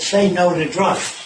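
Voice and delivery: slow, sneering quote of the slogan; mocking slogan. Lecturer mocking an anti-drug slogan, slow and scornful. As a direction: drag it out to mock it. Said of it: "some asshole said".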